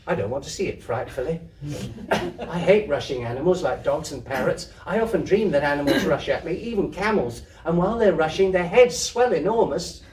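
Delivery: put-on high eager little girl, quickening; child's voice. Kezia confiding her animal dreams to the storeman, high and quick. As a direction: babble it like a small girl. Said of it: "Kezia talking to storeman".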